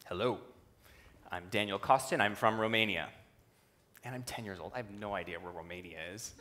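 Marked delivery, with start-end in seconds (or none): 0.1-3.1 lightly put-on Romanian accent, lower pitch; thick Romanian accent. Burly coach introduces himself to a young student, Romanian accent. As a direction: imitate the coach's Romanian accent, measured and low. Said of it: "he says in this very thick accent".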